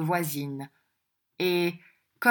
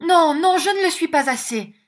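higher, louder mock sob; sobbing; 11 semitones higher, 9 dB louder than usual. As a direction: protest through put-on sobs. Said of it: "disait madame avec sanglots".

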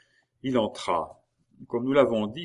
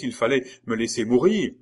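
louder, higher anguished protest; crying out; 4 semitones higher, 8 dB louder than usual. A narrator's reading. Maurice reproaches Geneviève for saving him, crying out. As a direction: throw out a bitter reproach. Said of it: "s'écria Maurice".

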